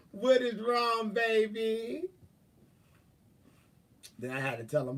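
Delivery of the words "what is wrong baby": higher, lilting retold question; mock consoling. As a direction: coo it upward as if consoling him. Retold consoling of crying boyfriend.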